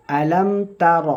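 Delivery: "আলম তার" with a short, clipped "তার"; correct reading. Shown as a demonstration. Teacher correcting students on "Alam তার". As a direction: cut "তার" short, no stretch. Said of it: "এটা তা".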